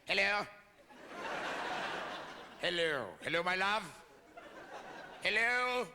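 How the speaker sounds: theatrical British greeting; drunken British accent. Acted. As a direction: practice a grand, tipsy British hello. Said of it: "I just acquire this British accent".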